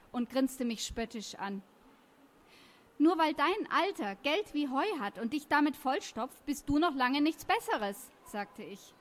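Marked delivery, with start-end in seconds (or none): 3.0-8.1 heated comeback, pitched up; acted schoolyard indignation; angry retort. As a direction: fire back at the bully. Acted quarrel, hitting back at taunts.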